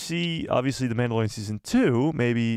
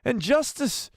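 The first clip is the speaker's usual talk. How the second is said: high, slow, impassioned proclamation; Anakin; 10 semitones higher, slower than usual. Acted. Streamer redoing the film speech for a donor, theatrical Anakin impression. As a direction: declare each word grandly, pausing between them. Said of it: "Can I do an impression of Anakin?".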